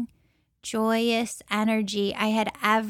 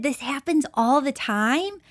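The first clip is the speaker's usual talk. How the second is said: incredulous question; 3 semitones higher than usual. Retold or imitated. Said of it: "I'm just shocked and stunned".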